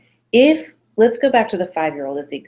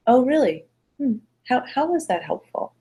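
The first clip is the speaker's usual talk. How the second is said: put-on higher-pitched, sceptical questioning of a child; pointed questioning; 6 semitones higher, 3 dB quieter than usual. Shown as a demonstration. Parent questioning a fibbing child, pointed and higher. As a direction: nail them with a probing question. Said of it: "not saying do it vindictively".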